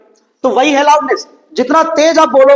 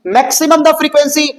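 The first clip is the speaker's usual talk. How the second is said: slow repeat; 3 semitones higher, much slower than usual. Shown as a demonstration. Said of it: "फिर से सुनना".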